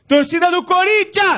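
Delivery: slow stadium host's call; chamando a torcida. Real, not acted. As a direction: stretch the call out to rally fans. (chamado arrastado para a torcida)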